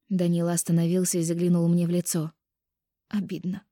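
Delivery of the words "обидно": sobbed. A narrator's reading. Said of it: "всхлипнула я".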